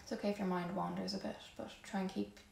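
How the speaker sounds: guided yoga breathing. Real, not acted. Yoga teacher guiding the class to notice their breath, calm and soft. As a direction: ease them gently into the breath, unhurried.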